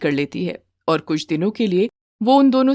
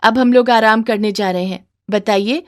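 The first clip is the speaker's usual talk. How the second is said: put-on a higher, louder young bride's voice; daughter-in-law answering her mother-in-law; 4 semitones higher, 4 dB louder than usual. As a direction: play the meek daughter-in-law, pitched up.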